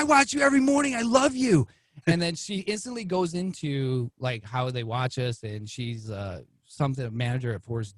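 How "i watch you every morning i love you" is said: high, gushing fan voice; mock starstruck fan. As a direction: gush like a starstruck viewer.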